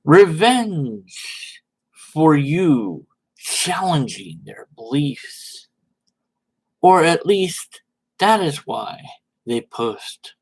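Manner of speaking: slow, sneering read fading to a hush; mocking tweet voice. Mocking a commenter's tweet in a sneering voice. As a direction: read it like a smug villain. Mock-reading a troll's tweet.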